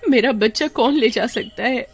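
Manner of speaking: high, frantic calls for her son; panicked mother. Acted. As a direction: cry out for the lost child in panic. Mother finds son missing.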